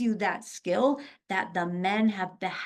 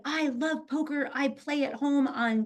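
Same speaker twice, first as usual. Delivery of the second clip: excited fan; 5 semitones higher than usual. Retold or imitated. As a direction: lightly imitate an eager fan. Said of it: "she was so excited".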